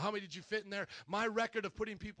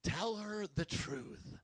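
voice of the Lord; much slower than usual. Retold or imitated. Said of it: "hear the Lord saying".

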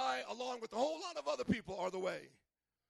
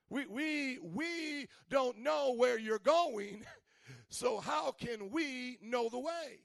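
louder, dragging out the complaint; Thomas speaking for everybody; 4 semitones higher, 4 dB louder, slower than usual. Retold or imitated. Thomas complaining to Jesus for everyone, whiny. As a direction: whine for the whole group, slowing at the end. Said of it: "he has to talk for everybody".

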